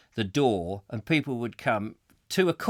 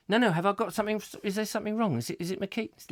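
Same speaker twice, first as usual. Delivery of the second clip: mock worry; 7 semitones higher, faster than usual. Acted worried man stopped by scanner.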